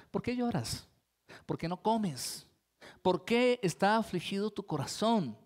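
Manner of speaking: gently questioning, slowed down; a husband tenderly asking his grieving wife why; loving. Retold or imitated. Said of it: "Le habló amorosamente".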